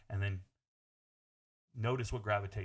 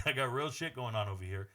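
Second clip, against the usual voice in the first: normal talking voice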